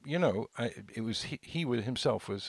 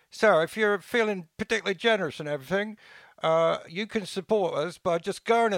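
put-on English accent; 8 semitones higher, 3 dB louder than usual.

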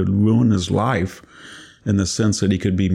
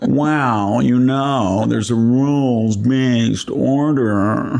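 mock pompous voice; 3 semitones higher, much slower than usual. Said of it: "Oh, that kind of stuff".

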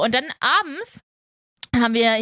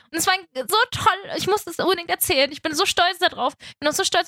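teary; 5 semitones higher than usual. Real, not acted. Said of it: "Ich heul schon wieder".

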